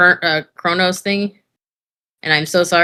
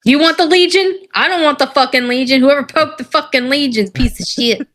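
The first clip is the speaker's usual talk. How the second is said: tipsy; 6 semitones higher than usual. Real, not acted. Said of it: "I'm a little tipsy right now".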